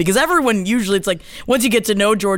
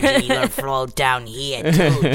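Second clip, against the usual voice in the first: cooing at a dog; 8 semitones lower than usual. Acted.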